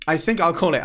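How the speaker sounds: words said through a yawn. Real, not acted. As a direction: stretch out a tired yawn. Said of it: "I'm yawning".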